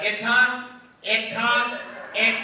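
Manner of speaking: "Ita" said haltingly, broken off with pauses; sounding out. Retold or imitated. Child reading the tile, sounding out "Ita" piece by piece. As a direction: sound out "Ita" like a beginning reader. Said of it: "sounding out every word".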